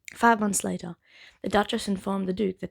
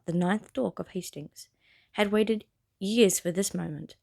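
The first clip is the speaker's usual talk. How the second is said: animated, deliberate storybook reading; story narration. Acted. Reader sharing the Bridgerton prologue on YouTube, narrating. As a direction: read it out to listeners, stressing phrase openings. Reads the novel aloud.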